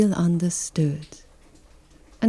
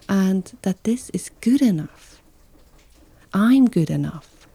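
whispered reassurance. Real, not acted. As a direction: whisper it to yourself. Self-reassurance.

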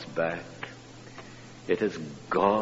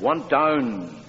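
put-on tired child; 5 semitones higher, 5 dB louder than usual. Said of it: "he said".

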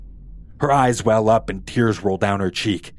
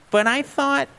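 confused Velma. Acted. Velma voiced, cut off.

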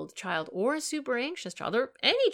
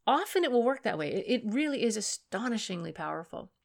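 usual speaking voice

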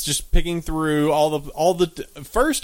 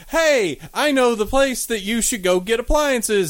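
voiced TV character; 7 semitones higher than usual. TV voiced in movie recap.

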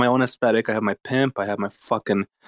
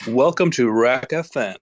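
radio host intro. Acted. Mock radio show intro.

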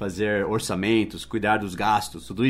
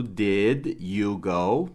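slow teaching demo; 2 semitones lower, much slower than usual. Shown as a demonstration. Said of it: "agora o auxiliar do passado".

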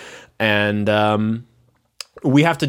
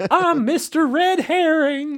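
high, slow creepy laughing voice; slow ominous raspy drawl; slower than usual. Retold or imitated. Voicing the creepy groundskeeper.

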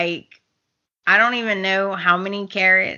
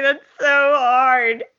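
mock whine; 3 semitones higher, slower than usual. Co-host voices sympathetic lament.

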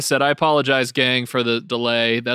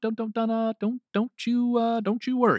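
Jason Bateman impression; 8 semitones higher, 4 dB quieter, faster than usual. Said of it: "my impression of Jason Bateman in Ozark".

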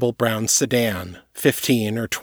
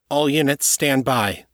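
ordering; 4 semitones higher than usual. Acted. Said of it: "Jaguar ordered".

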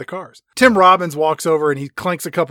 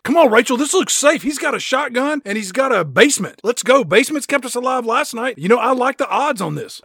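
higher, louder, pumped-up pep talk; mock eager hero; 8 semitones higher, 4 dB louder than usual. Tom Cruise urging Rachel into the basement, hammed-up eager. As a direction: sell the basement like a giddy action hero.

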